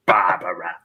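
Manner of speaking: Barbara, each syllable leaned on. Shown as a demonstration. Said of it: "emphasize each syllable".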